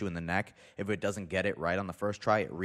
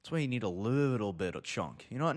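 ordinary talk, nothing marked

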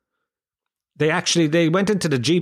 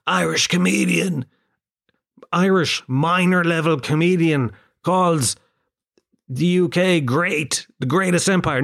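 mock headline; 4 semitones higher than usual. Comedian voicing an imagined headline about getting cancelled, mock announcement.

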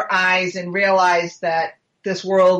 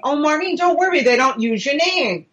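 higher, lilting quoted reassurance; imitated breezy reassurance; 5 semitones higher than usual. Investigator telling her not to worry about TV, mock reassurance. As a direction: imitate him brushing the worry away, slowing at the end. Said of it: "I remember Ron saying".

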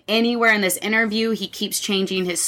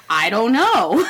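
breaking into a laugh mid-quote; real laughter spilling into the words; 4 dB louder than usual. Real, not acted. Quoting Ryan while laughing.

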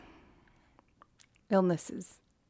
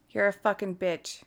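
quiet repeat; 8 dB quieter than usual. Real, not acted. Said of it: "Your language".

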